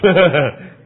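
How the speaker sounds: loud hearty chuckle; real laugh. Real, not acted. Preacher amused at receiving the man's blessing, real laughter. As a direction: burst out laughing.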